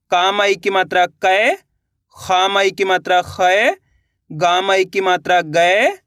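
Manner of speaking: slow, deliberate syllable-by-syllable spelling of कै खै गै. Shown as a demonstration. Teacher spelling out syllables slowly for pupils. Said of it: "जैसे कि यहाँ पे".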